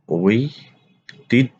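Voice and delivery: ঐতিহ্য slowly as oi-tij-jho; slow model pronunciation. Shown as a demonstration. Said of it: "আলোচনা করব শব্দের উচ্চারণ". (ঐতিহ্য ধীরে উচ্চারণ)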